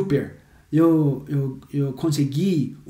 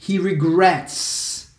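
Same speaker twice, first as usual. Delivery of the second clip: "He regrets" drawn out slowly; incomplete example; much slower than usual. Shown as a demonstration. Teacher shows what not to say, slowly. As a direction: stretch "regrets" as the example to avoid. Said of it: "você não pode falar".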